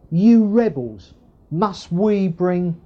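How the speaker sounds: slow, weighted indignation, imitating Moses; mock lost temper. Moses losing his temper at the people, slow mock outrage. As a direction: drag out a mildly angry accusation. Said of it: "He loses his temper".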